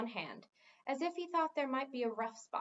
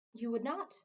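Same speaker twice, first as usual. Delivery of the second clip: offhand. Acted. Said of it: "said in an offhand manner".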